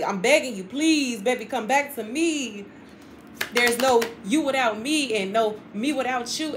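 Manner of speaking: mock-dramatic lover's plea; hammed-up begging to be taken back. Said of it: "somebody is dramatic".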